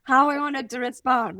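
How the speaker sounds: high, loud, startled cry of shock at herself; startled whoa. Retold or imitated. Mom catching herself after snapping at her daughter, startled and loud.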